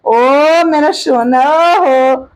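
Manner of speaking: very drawn-out endearment; doting coo. Real, not acted. Grandmother doting on her granddaughter, slow sing-song coo.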